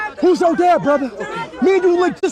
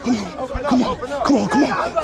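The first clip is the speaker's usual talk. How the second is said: chuckling come on, teasing and light; amused call to follow, laughing; 6 semitones lower than usual. Real, not acted. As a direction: laugh through the urging. Laughing, urging someone along.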